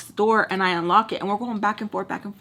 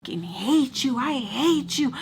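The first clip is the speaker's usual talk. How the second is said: heated, pitched-up "I hate you" rant; retold screaming; 5 semitones higher than usual. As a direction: act out a screaming fight at normal volume. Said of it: "I'm just, like, screaming at him".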